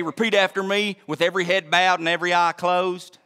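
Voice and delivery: put-on Oklahoma preacher twang; mock Oklahoma preacher. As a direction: parody an altar call in an Oklahoma accent. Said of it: "I really talk like that".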